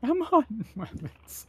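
drawn-out Elmer-style hunter line; cartoon hunter voice. Player echoes the cartoon hunter line, voiced high and slow.

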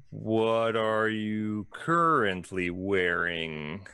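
slow, drawn-out gnome merchant pitch; a salesy gnome savouring every word; lightly voiced gnome proudly pitching his shop; gnome shopkeeper. Gnome asks the customer.

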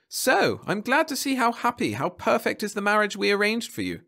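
high-pitched pleased official; smiling. A narrator's reading. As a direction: gloat happily over the arranged match. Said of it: "the man smiled".

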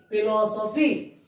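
PHILOSOPHY in measured parts, rising at the end; separate syllables. Shown as a demonstration. Teacher repeating the division for pupils, measured. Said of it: "these are all trisyllable words".

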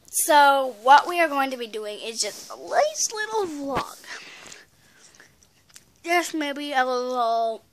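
talking around gum; words through a wad of gum; chewing gum. Real, not acted. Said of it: "I've gum, in my mouth".

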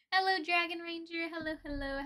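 high, bright sing-song hello; cheery greeting. Real, not acted. Streamer greeting a viewer named Dragon Ranger, high and cheery. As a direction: greet them with a lift.

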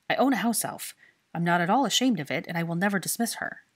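loud, blunt defiant statement; defiant challenge. Acted. Draco confessing to Hermione he owns a house elf, defiant. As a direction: throw it down like a challenge. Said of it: "stated so baldly ... like a challenge".

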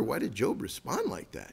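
soft, wondering question; quiet musing. Shown as a demonstration. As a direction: ask it softly to yourself. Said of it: "You might wonder".

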